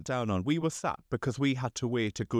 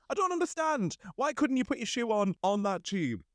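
baffled disbelief; 11 semitones higher than usual. Retold or imitated. Retold baffled reaction to the stranger.

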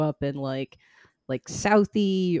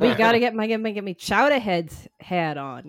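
Boston townie, hammed up; hammed-up Southie accent; 3 semitones higher than usual. Southie local wanting his hat, hammed Boston accent. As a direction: play a mock Southie local. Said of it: "I mean, well, I'm hamming it up".

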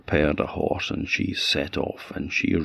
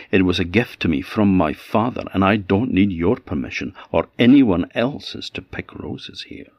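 proud, lightly raised voice, mildly haughty; 3 dB louder than usual. Acted. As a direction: put him in his place, lady of the land. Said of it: "in a haughty voice she said".

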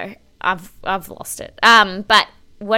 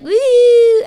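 high, loud whooping cheer; excited whoop; 14 semitones higher, 12 dB louder than usual. Retold or imitated. Dogs arrive on the date, excited whoop. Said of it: "they're all like".

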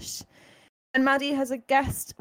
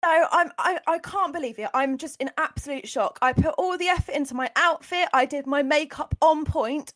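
acted outrage, raised pitch; shocked reality star; 3 semitones higher, 3 dB louder than usual. Reality star learning cameras are fake, shocked. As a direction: play the aghast reality star. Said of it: "reality T V star who has just realised".

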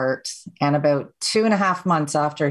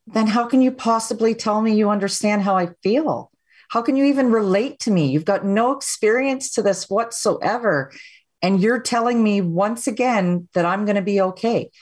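higher-pitched, exasperated disbelief; frustrated inner rant; 5 semitones higher than usual. Retold or imitated. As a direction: let the frustration rise in the thoughts. Frustrated thoughts at psychiatrist.

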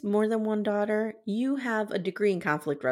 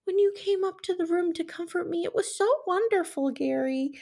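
breathy sweet voice; 9 semitones higher than usual. Retold or imitated. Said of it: "she tells him".

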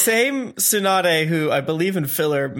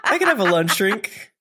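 high, drawn-out self-bargaining; hammed-up coy caving in; tempted drinker; slower than usual. Tsunade talking herself into a lunch drink, coyly tempted.

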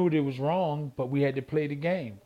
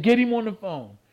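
louder, higher ordering; angry demand; 5 semitones higher, 4 dB louder than usual. Retold or imitated. Boxer orders the promoter's daughter to get her dad, angry. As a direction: demand the boss, fuming. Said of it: "So I started cussing".

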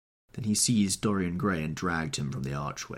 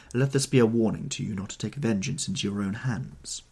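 stern; 3 semitones higher, 4 dB louder than usual. Acted. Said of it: "looking at him sternly".

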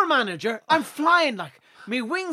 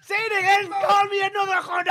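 pitched-up pleading rich fella; mock rich man begging for more; posh rich fella; 11 semitones higher than usual. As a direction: beg like a kinky rich man, voice high. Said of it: "like some fucking rich fella".

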